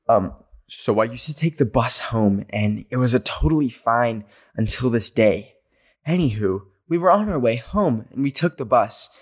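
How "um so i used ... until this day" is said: crime podcast narrator voice; dramatic podcast read. Shown as a demonstration. Reading a listener story like a crime podcaster, dramatic. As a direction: read it like a gripping true crime host. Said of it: "Should I read it in a more dramatic accent?".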